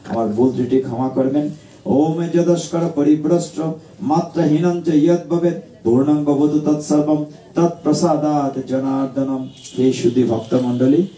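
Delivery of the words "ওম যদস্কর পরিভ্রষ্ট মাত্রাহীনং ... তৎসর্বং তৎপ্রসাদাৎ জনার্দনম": prayer recitation. Acted. Closing Sanskrit prayer.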